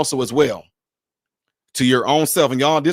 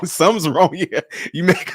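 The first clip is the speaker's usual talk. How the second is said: usual speaking voice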